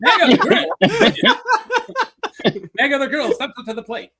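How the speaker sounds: mid-Atlantic radio voice; old-time radio host read; fifties radio announcer. Pretend. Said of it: "a fifties radio guy".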